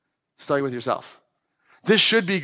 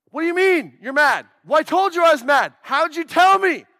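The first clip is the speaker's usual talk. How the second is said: imitating confused guy; 10 semitones higher than usual. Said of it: "We can't figure, especially guys".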